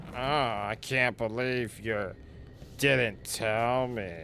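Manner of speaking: a lightly nasal, whiny imitation of Tosh; mock nasal whine. Streamer mocking how Tosh usually talks, mild nasal whine. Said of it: "like, nasally and whatnot".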